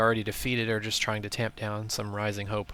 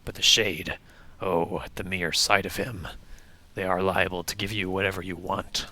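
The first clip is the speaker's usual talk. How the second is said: snake voice; 2 semitones lower than usual. Acted. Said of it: "I assumed it was Snake you were doing".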